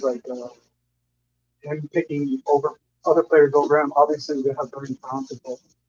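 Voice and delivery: muffled, distant voice. Real, not acted. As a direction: talk as if through a hand over the mouth. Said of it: "you're very muffled".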